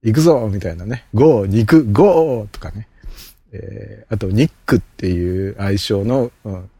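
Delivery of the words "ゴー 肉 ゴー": excited. Shown as a demonstration.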